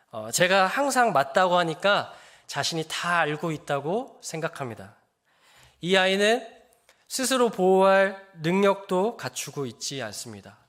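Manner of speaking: normal talking voice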